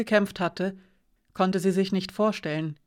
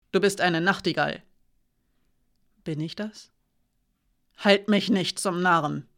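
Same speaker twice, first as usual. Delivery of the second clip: stern guardswoman. Acted. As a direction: press the accusation hard. Alina accuses Hiraya.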